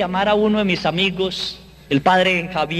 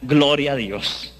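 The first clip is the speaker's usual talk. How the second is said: low, slow, reluctant "Gloria a Dios"; mock half-hearted praise; grudging reply; 5 semitones lower, slower than usual. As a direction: mutter "Gloria a Dios" without conviction. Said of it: "Entonces yo les contesté ya".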